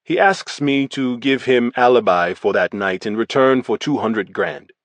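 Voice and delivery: a hint of a Russian accent, blunt and even; lightly voiced Russian gangster, matter-of-fact; Russian gangster giving his statement, lightly accented. Volkov's recorded statement.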